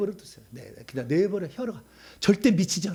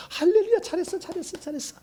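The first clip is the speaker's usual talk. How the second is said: excited praise. Real, not acted. Cheering congregation.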